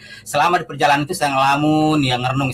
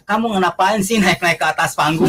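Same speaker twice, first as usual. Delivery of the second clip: higher-pitched exasperated friend; mock scolding; 4 semitones higher than usual. Friend to him after the stage climb, mock scolding. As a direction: imitate a friend lightly telling you off.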